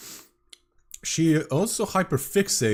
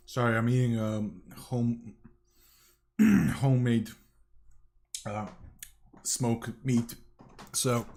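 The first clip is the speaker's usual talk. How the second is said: mouth full. Real, not acted. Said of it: "it takes a long time to chew it".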